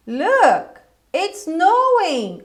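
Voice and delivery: slow model statement. Shown as a demonstration. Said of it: "por isso que eu digo".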